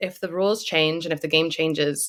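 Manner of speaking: plain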